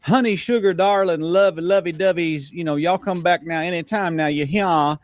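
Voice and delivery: mild Southern sweet-talk parody; mock Southern endearments. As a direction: rattle off sweet Southern pet names in jest. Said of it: "all that sweet".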